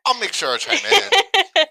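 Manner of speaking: slow, booming monster growl. Pretend. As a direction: drag it out like a monster. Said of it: "With your monster voice?".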